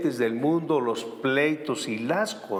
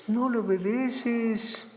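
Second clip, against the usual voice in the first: higher, slow, dismissive; mock dismissive; 8 semitones higher, slower than usual. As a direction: shrug off obedience. Mock objector.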